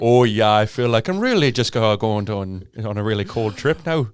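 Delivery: put-on Canadian accent; Jordan Peterson. Co-host shows the accent they slip into, Jordan Peterson impression. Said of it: "doing your Jordan Peterson accent".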